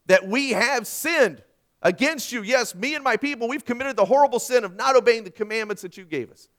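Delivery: loud, slowed cry to God; fervent prayer. Acted. Preacher voicing Nehemiah confessing Israel's sins, fervent and loud. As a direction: declaim a prophet's confession with full force.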